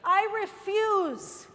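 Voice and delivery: loud, slow I refuse; defiant declaration. Shown as a demonstration. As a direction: plant your feet and refuse it out loud. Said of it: "you say to those things".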